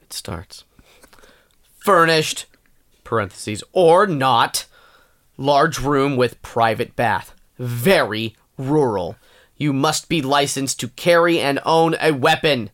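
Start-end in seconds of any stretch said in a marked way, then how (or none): 1.8-12.7 slow, emphatic angry listing read; stern, deliberate anger on each phrase. Acted. Reads a room-rental ad angry at co-host's request, angry. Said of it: "I want you to read this angry".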